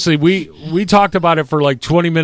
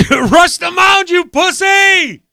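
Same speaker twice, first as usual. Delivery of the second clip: much higher mock heckle; heckling yell; 14 semitones higher, 3 dB louder, much slower than usual. Teammate yelling at the hit batter to charge the pitcher, high heckling yell. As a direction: egg him on from the dugout. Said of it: "Planky didn't hear me go".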